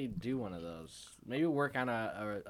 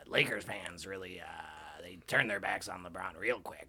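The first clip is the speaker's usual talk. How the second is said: sports radio host. Acted. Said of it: "That's so good".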